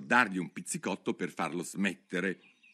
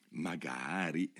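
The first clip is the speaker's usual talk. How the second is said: softer, murmured aside; murmured to herself; 3 semitones lower, 5 dB quieter, slower than usual. A narrator's reading. March hare murmuring to herself, softer. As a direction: mumble it under your breath. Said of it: "mormorò tra sé e sé".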